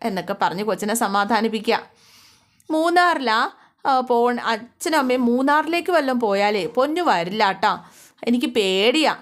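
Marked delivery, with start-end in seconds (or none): 2.7-9.1 a hint of a worried child pleading with her mother; scared little girl. Narrator voices the frightened little girl.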